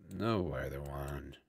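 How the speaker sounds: slow hushed whisper. Acted. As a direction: breathe the words out, slow and low. Villain hisses a threat.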